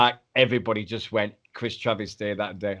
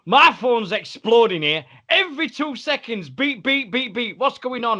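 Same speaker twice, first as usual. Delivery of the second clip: much higher, flustered mock voice with beeps; imitating panicked Trav; 12 semitones higher than usual. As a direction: play the mate overwhelmed by phone alerts. Trav voiced, phone going mad.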